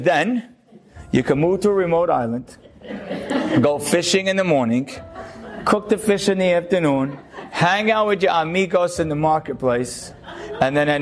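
chuckling while delivering the punchline; amused, half-laughing retelling of the fisherman's day; laughing through the punchline. Acted. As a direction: let a laugh slip through each phrase.

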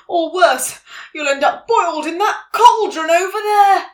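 high, loud frog character voice; croaking frog. A narrator's reading. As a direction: croak out an urgent warning. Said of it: "croaked a frog".

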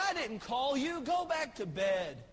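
put-on mildly grumpy old man, slowing at the end; a hint of a sleepy old priest; grumpy Eli. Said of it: "That's exactly what he says".

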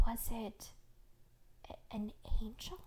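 breathy, halting, tentative question; hushed stammer of disbelief; awed whisper. A narrator's reading. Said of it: "my mother whispered".

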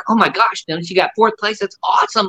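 gushing with proud joy, lightly voiced; elated dad. Dad thrilled over the phone at his son's fourth place. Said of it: "he was just elated".

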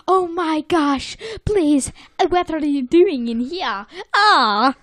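high, panicked, badly faked accent; SpongeBob. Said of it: "what accent that was either".

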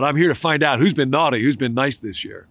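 mock-stern Santa shout. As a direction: call out to the whole class as Santa. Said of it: "He continued to shout".

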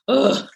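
short, high-pitched ugh of annoyance; exasperated groan. Real, not acted. Mother recalling the baby voice she can't stand, exasperated groan. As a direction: let out a fed-up groan.

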